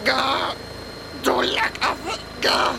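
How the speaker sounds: high, crushed gasping voice; squashed against the ceiling, giving up; squeezed strangled surrender. Acted.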